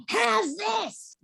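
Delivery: shrieking witch snarl, high and shouted; the Rita Repulsa witch screech; scary villain voice. Retold or imitated. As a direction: scare them into hiring you back. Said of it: "that's the voice".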